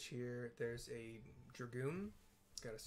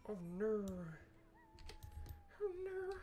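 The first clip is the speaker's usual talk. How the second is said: mock panic; 4 dB louder than usual. Player panics over lost friend.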